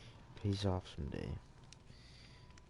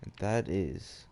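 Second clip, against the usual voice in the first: measured read-aloud storytelling; story narration; 4 dB louder than usual. A narrator's reading.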